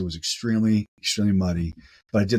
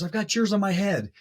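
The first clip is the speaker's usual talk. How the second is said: imitating Neil, much higher, gleeful; teasing Neil; 11 semitones higher than usual. Neil telling Corey he wears his headlamp, high gleeful imitation. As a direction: rub it in playfully. Retold Neil's joke.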